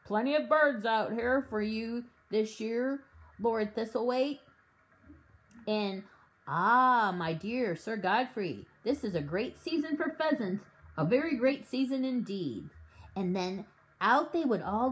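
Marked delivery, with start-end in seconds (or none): 0.0-4.4 a hint of a puffed-up squire; mock the self-important host, lightly; lightly voiced pompous host. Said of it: "saying things like". 6.5-12.7 a hint of a puffed-up squire; mock the self-important host, lightly; lightly voiced pompous host. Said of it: "saying things like".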